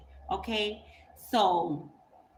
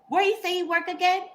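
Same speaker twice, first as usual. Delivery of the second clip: high, probing mock-innocent ask; high loaded question; pointed question; 10 semitones higher, 5 dB louder than usual. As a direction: lean on the question again.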